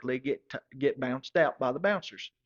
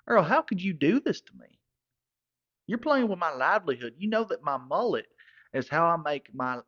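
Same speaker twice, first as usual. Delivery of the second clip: pleading complaint; 2 semitones higher than usual. Retold or imitated. To Earl about the ruined mullet, raised wounded plea. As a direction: protest like your livelihood is ruined.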